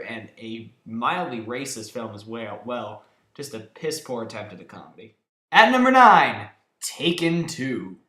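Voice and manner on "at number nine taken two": loud, higher announcer call; countdown call. Acted. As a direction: boom out the ranking.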